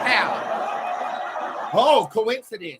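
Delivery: giggling through the words; laughing. Real, not acted. Insisting to viewers she's passionate not angry, laughing. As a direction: laugh it off, still worked up. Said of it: "I'm passionate".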